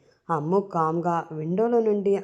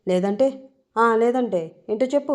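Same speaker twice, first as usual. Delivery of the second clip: a bit louder, suddenly stern challenge; suddenly serious; 5 semitones higher, 5 dB louder than usual. Acted. Srinu turns serious on Ammu, stern challenge. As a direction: turn cold and dare her to finish. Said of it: "ఒక్కసారిగా serious అయి".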